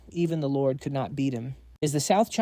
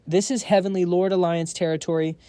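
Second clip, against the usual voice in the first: loud, high stern command; commanding shout; 4 semitones higher, 4 dB louder than usual. Acted. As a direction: bark the order to stop. Monk halts them, shouting.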